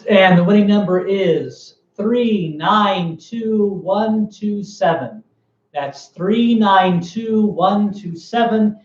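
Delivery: raffle caller. Real, not acted. Reading out the winning raffle number.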